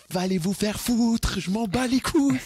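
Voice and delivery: hammed-up, very high drawn-out voice; mock defiant taunt. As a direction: stretch it out high, playfully telling critics off. Hammed-up tell-off to imagined critics.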